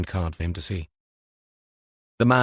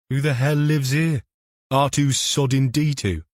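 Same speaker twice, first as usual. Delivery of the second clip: higher, scornful inspector voice; sneering detective voice; 5 semitones higher than usual. Acted. KFC mocks the doorbell.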